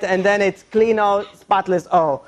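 slow mock-Spanish O endings; bad Spanish accent. Employer instructing the maid, bad Spanish accent. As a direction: mimic clumsy made-up Spanish. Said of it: "They just throw O at everything".

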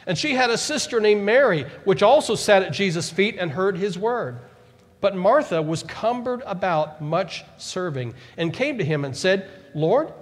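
preacher reading Luke to the congregation; scripture reading. Acted. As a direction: read the passage with weight.

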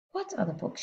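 soft, high murmur. A narrator's reading. Teacher murmuring in wonder to the child. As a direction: breathe the question in wonder. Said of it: "she murmured".

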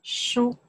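书 in first tone, high and level. Shown as a demonstration. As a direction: hold 书 high and even. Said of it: "first one".

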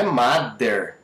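"mother" said as "madder"; hard D in the middle of "mother"; learner's wrong "mother", D for TH; mispronounced D. Shown as a demonstration. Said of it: "Não é".

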